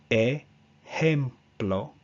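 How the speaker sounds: "ejemplo" drawn out, with a pure E, rising at the end; very slow ejemplo. Shown as a demonstration. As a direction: stretch "ejemplo" syllable by syllable. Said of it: "Our second example".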